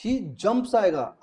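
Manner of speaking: slow, drawn-out "He jumps" with jumps leaned on; teacher pointing out the s in "jumps"; stress on jumps. Shown as a demonstration. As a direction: spell out "jumps" slowly for the class, hitting the s. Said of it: "यहाँ पे जंपेस क्यों आएगा".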